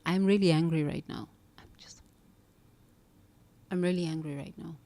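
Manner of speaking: hushed, breathy confession; whispered admission. Shown as a demonstration. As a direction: whisper it as if only to yourself. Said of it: "just start with".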